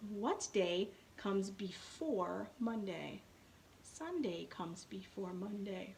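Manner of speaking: put-on slow, clear teacher talk to a young student; slow classroom demo voice. Shown as a demonstration. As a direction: spell it out slowly for a child. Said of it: "And I will say".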